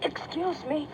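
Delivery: anxious mother bat forcing through the crowd; urgent and alarmed. A narrator's reading.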